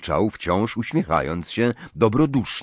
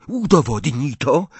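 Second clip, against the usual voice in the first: put-on higher boyish demand; commanding; 6 semitones higher, 4 dB louder than usual. A narrator's reading. Riddle demands proof of magic from Dumbledore, commanding. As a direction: order an adult to obey at once. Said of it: "tym samym rozkazującym tonem".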